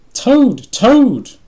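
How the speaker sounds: loud, high-pitched calling shout; excited shout. A narrator's reading. Frog at Toad's door, shouting to wake him. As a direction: holler a friend's name to wake him. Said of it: "shouted Frog".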